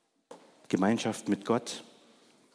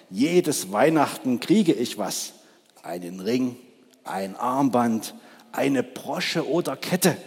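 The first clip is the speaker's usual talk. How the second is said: lightly voiced greedy magpie; a hint of the magpie listing treasures. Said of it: "krächzte die Elster". (Die Elster zählt ihren Schmuck auf, leicht gespielt)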